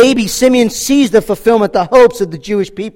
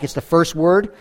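normal talking voice

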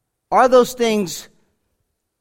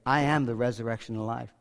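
"I am the resurrection and life" said softer and lower, almost to himself; a hushed, inward first reading; soft quote; 9 semitones lower, 8 dB quieter than usual. Acted. Quoting Jesus at the tomb.

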